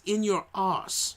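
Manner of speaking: slow Manchester "In your arse"; Manchester accent. Retold or imitated. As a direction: drawl "In your arse" like a Mancunian. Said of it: "with his accent from Manchester".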